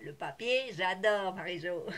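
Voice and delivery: imitating friend's delight. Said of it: "elle serait là, elle dirait".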